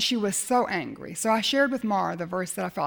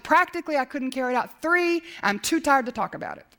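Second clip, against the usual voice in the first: rude refusal; 2 semitones higher than usual. Retold or imitated. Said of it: "I was rude".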